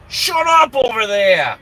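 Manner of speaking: high, drawn-out shout across a distance; climbing into a long, irritated yell; yelling at someone outside. Real, not acted. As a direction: holler it out in annoyance. Yells at noise outside.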